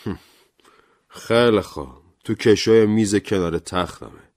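mild grudging anger through clenched teeth; reluctant, resentful agreement; understated teeth-gritting irritation; through gritted teeth. Acted. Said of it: "با دندان قروچه گفت".

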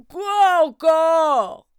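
a woken bear growling what now; loud drawn-out bear growl. Acted. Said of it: "grogna monsieur Ours".

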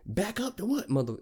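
high-pitched, incredulous comeback; mock-outraged and high; indignant retort. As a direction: retell an outraged challenge. Teller acts out his angry retort.

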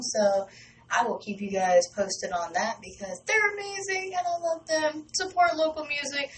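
upbeat station sign-off read; radio DJ announce. Acted. Host introducing the local band, in an upbeat radio DJ read.

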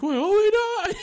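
high mock panic; hammed-up, high panicked protest; freaking out. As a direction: imitate someone realizing he's caught. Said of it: "He's just freaking out".

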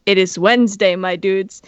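the flesh creature croaking out the meme; monster quoting a meme. Retold or imitated. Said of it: "and it goes".

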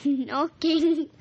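loud yell at the dog; girl yells at her dog to stop. Acted.

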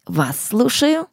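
ordinary talk

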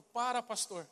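boy shouting in a retold plea. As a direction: call out from the back of the room. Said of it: "E ele gritou lá do fundo".

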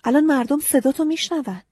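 shouting. A narrator's reading. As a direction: yell at her to stop. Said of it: "داد زد".

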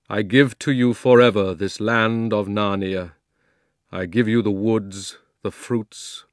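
lightly voiced solemn lion king; Aslan. Aslan granting Narnia to the beasts, solemn. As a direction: give the land away with grave authority.

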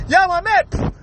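"Yo, my man" ended on a spat P; popped P. Shown as a demonstration. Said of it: "just pronounce the P".

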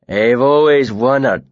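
1 loud for the room. Acted. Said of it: "loud enough for it to carry through the whole room".

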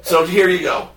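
high, strained plea that slides down; pushing, fed up, for the money; exasperated demand. Retold or imitated. Adam demanding his winnings from the clerk, exasperated and high.

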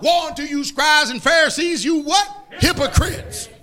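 emphatic preacher's quote of a rebuke; Jesus rebuking hypocrites. Retold or imitated. Preacher showing how Jesus talked to Pharisees, emphatic rebuke. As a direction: set up the last word like a verdict. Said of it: "look how Jesus talked".

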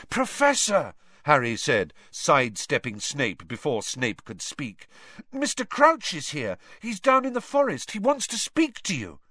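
Harry telling Dumbledore; urgent boy. Acted. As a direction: blurt it out.

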